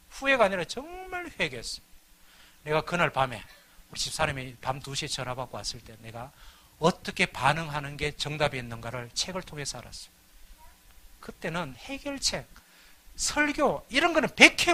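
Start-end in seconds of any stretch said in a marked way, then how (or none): none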